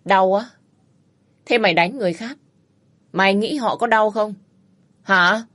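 man scolding a wife beater; scornful rebuke. Acted. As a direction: throw his pain back at him. Rescuer lectures the bully.

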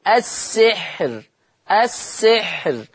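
السحر slow with a thin ra at the stop; thin ra in pause. Shown as a demonstration. Teacher models the pausal form, thin ra. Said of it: "فهي مرققة للجميع".

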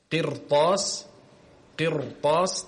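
قرطاس with a thick, broad ra; heavy ra. Shown as a demonstration. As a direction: demonstrate the heavy ra before the ta in قرطاس. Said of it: "هنا أيضًا تفخم".

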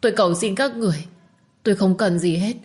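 put-on young woman begging, climbing to a cry at the end; desperate pleading young mother. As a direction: beg as if on your knees for your child. Minh begs to keep her child.

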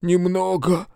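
nasal voice through a broken nose. Acted. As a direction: speak as if the nose is broken and blocked. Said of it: "гнусовым голосом отозвался Сальф".

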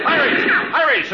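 calling out. Acted. Sketch, partner calls out in alarm.

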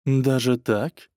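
a slow pondering drawl; thoughtful drawl. Acted. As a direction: stretch it out, musing. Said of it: "задумчиво протянула".

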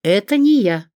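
put-on startled old lady protesting; frightened denial. A narrator's reading. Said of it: "испугалась Рима Марковна". (испуганно оправдываясь, громче и выше)

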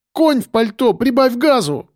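high-pitched snappy order; urgent cry. A narrator's reading. Woman urging the driver to speed up, urgent cry. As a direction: urge the driver on impatiently. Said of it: "крикнула Олеся".

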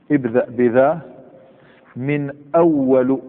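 ابدأ بذا من أول read slowly with a rising أول; slow demo reading. Shown as a demonstration. Teacher reads the quoted phrase slowly to students. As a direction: spell out من أول word by word. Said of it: "حكاها باللغات الثلاث".

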